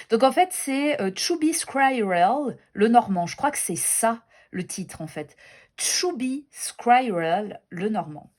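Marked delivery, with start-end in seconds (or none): 1.1-2.6 slow, careful English with a French accent. Real, not acted. Reading a deck title to viewers, French-accented English. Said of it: "Désolée pour mon accent pourri". 5.8-7.6 very slow French-accented English. Real, not acted. Repeating the deck title for viewers, slow French-accented English. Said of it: "Désolée pour mon accent pourri".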